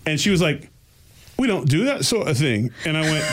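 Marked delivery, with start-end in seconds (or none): 1.4-2.7 lightly imitated Scottish woman, slightly higher; a hint of a disapproving Scottish accent. Scottish woman rebuffing his claim to be half Scottish, lightly imitated accent. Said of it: "she had a really strong Scottish accent".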